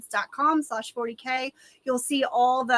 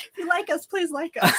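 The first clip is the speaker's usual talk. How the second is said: laughing; 6 semitones higher than usual. Real, not acted. Teasing repeat of the plea.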